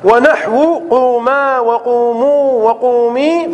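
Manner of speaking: قوما وقوموا وقومي read slowly; slow recitation of the text; slow recited quote. Shown as a demonstration. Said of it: "قال".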